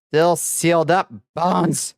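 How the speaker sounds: high-pitched yelp of a word; playful yell. Real, not acted. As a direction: call it out high, just for the fun of it. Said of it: "just like to scream".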